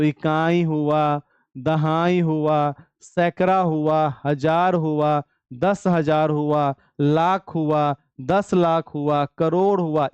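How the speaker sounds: slow, deliberate dictation of place names; like a teacher reading aloud for notes; slow counting out. Shown as a demonstration. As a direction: spell each place out slowly for the class. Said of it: "कैसे पढ़ेंगे?".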